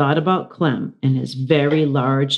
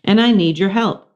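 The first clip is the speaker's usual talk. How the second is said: Miranda asking help; 4 semitones higher than usual. Acted. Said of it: "Miranda said".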